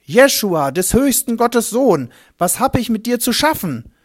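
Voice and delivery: high, loud, frantic cry; a possessed man shrieking at the newcomer, loud and high; screaming madman. Acted. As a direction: scream it at the stranger as a raving madman. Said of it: "steht Gräber Dani schreiend".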